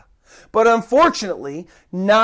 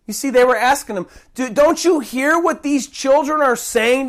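a hint of accusing chief priests; lightly voiced priests rebuking Jesus; indignant priests; 5 semitones higher than usual. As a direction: challenge him, scolding.

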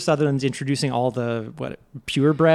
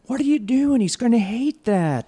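Marmaduke voice; 7 semitones higher than usual. Retold or imitated. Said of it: "Marmaduke is like".

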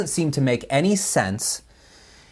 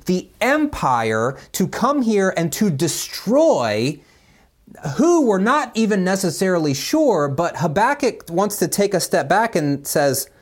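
a touch higher, quick, impassioned prophet pleading with God; mock-exasperated complaint, mostly fast and a bit higher; Josh Revel impression; 5 semitones higher than usual. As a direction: plead urgently, a lightly voiced impression of a preacher. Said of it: "That was my Josh Revel, uh, uh, impersonation".

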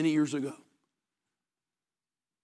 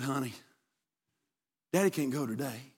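sleepy dad; 7 semitones lower, 11 dB quieter than usual. Retold or imitated. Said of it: "his dad rolled over and said".

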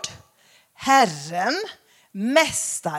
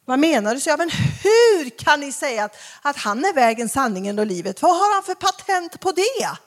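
imitating angry woman; 3 semitones higher, 4 dB louder than usual. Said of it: "Hon var så arg".

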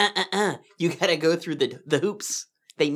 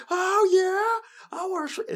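chipper service voice; 14 semitones higher than usual. Retold or imitated. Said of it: "'cause you can be".

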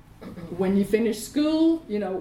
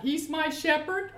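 higher call-out for others to repeat; leading a recitation; 5 semitones higher than usual. Real, not acted. Pastor leads congregation to repeat aloud, leading a recitation. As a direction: lead the room in a declaration, lifting the end. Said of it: "Let's say this out loud".

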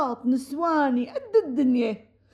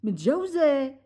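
much higher, stunned question; can't believe what she just heard; shocked disbelief; 6 semitones higher than usual. Acted. Shock that Salwa is married. (دهشة مصدومة بصوت عالي النبرة)

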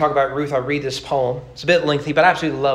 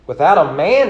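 Naomi; 8 dB louder than usual. Acted. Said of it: "Naomi said".

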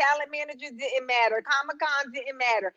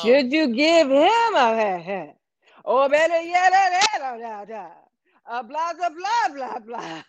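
mock radio cadence; slower than usual. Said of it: "I'm here for the cadence".

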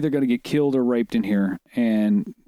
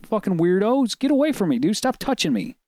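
higher-pitched retold exasperation; exasperated brush-off; 6 semitones higher than usual. Man retelling how he brushed off creepy strangers, exasperated. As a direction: act out shooing off pests.

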